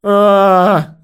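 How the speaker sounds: high, loud held yell; yelling scream. A narrator's reading. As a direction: scream out on one long note. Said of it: "заорал он". (громкий протяжный вопль)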